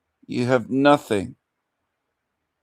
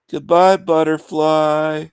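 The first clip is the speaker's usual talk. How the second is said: high, slow sing-song goodbye; mock farewell; 4 semitones higher, 4 dB louder, slower than usual. Real, not acted. Sing-song taunt to the woman who left the chat.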